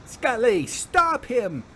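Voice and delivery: shout. A narrator's reading. Vera on the ground, shouting to Scully. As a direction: yell for help from the ground. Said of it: "Vera shouted".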